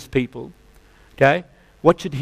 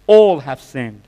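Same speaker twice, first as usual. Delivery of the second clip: All have sinned thundered louder, ALL hit hard; emphatic repeat; 6 dB louder, slower than usual. Real, not acted. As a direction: hammer home ALL like a preacher's verdict. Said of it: "The Bible said all have sinned".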